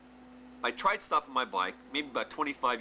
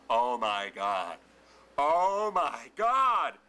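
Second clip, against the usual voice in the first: panicked; 5 dB louder, much slower than usual. Retold or imitated. John panicking over trapped hand.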